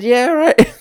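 answering the hikers who threatened to report him, defiant; defiant retort. Retold or imitated. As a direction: dismiss them with a sneer. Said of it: "And I said".

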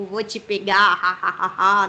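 low mock-menacing villain; macabre villain voice. Shown as a demonstration. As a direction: sketch a cartoon villain's menace, ending in evil laughter. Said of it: "aquela voz mais macabra".

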